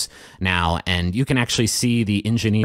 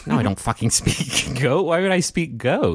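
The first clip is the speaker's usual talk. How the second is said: exasperated; 6 semitones higher than usual. Acted. GM as Barclay, exasperated.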